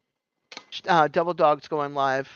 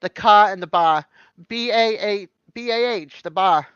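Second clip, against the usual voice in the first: Boston "bar" spelt B A H; Boston accent; 5 dB louder than usual. Shown as a demonstration. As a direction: spell it out Boston style.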